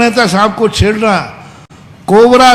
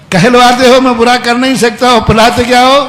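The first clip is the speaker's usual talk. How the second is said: forceful rebuke; 5 semitones higher, 4 dB louder than usual. Real, not acted.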